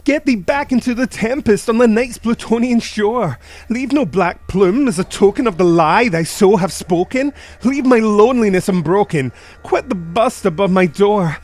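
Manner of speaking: loud, high raging orders; furious command. Acted. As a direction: drive the raven out in fury. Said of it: "I shrieked".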